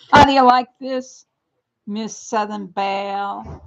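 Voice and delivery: laughing, proud of the hat; laughing show-off. Real, not acted. Showing off new hat, laughing.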